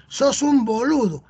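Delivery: slow, lightly imitated Argentine lilt; Argentine accent. Teacher repeating the Argentine lad's insult, in a light Argentine accent. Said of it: "Mira cómo le ha dicho".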